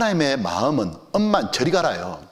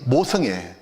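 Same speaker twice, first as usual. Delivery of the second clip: ordinary talk, nothing marked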